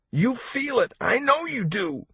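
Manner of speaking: very high, panicky accusation; high, anxious insistence; calling out. A narrator's reading. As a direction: call out shrilly without extra volume. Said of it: "Nico called out".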